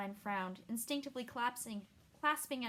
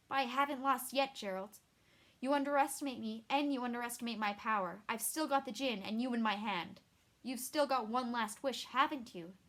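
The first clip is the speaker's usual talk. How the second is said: defiant threat; 4 dB louder than usual. Acted. Yennefer defiant toward Geralt.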